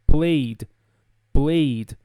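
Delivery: PLAYED as one syllable ending in a D. Shown as a demonstration. Teacher modelling PLAYED, one syllable with a D sound. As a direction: close PLAYED straight onto a voiced D. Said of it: "tirasse esse E e só falasse o D".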